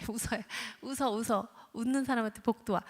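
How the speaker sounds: soft, half-whispered coaxing; coaxing smile plea. Retold or imitated. Parent coaxing the child to smile, soft. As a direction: gently urge the kid to smile. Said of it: "하면서 합리화를 하고".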